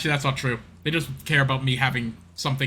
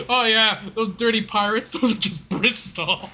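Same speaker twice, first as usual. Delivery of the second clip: mock Bristol accent; 6 semitones higher, 3 dB louder, slower than usual. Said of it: "It's a Bristol accent".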